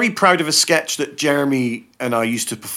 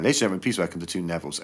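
announcer intro; 7 semitones lower, 8 dB quieter, much faster than usual. Retold or imitated. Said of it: "We'd be introduced by Dan".

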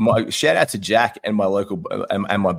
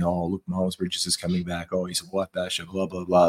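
mock media hype; 4 semitones lower, 7 dB quieter than usual.

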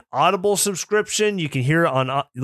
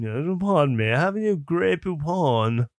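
Grey Poupon butler voice. Retold or imitated. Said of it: "the guy asking for Grey Poupon".

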